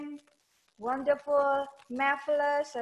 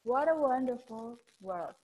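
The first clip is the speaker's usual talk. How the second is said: smooth linked words. Shown as a demonstration. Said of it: "diseret kalau bahasa Jawa".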